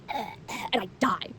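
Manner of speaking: mock-dramatic whisper, drawn way out; whispered dying. To viewers about sad endings, a slow mock-dying whisper. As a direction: let it fade out like a theatrical death.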